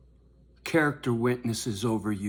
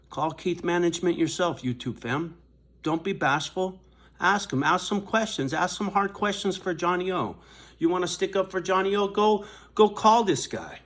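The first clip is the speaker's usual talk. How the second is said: raised, loud, egging viewers on; rally the fans to call, louder and higher; heated urging; 6 semitones higher, 4 dB louder than usual. Real, not acted.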